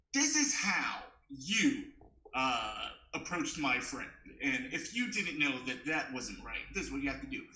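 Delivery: lightly put-on well-spoken voice; white voice. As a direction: explain politely in a mild white-voice act. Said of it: "This is my white voice".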